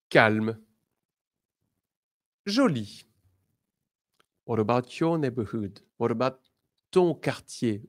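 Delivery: ordinary delivery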